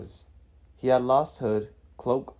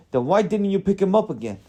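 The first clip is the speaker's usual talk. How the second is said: high, loud exasperated question; pitched-up, heated comeback; indignant challenge; 10 semitones higher, 6 dB louder than usual. A narrator's reading. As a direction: demand an answer as an irritated wizard. Wizard challenges dwarf in acted quarrel.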